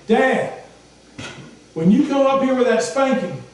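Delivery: put-on high, cheeky child's voice. Preacher voicing a boy asking his dad for water. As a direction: ask sweetly like a little boy.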